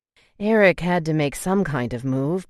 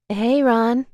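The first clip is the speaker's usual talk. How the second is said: put-on higher, friendly girl's call; bright greeting, pitched up; Sophia voice; 7 semitones higher, 4 dB louder than usual. A narrator's reading.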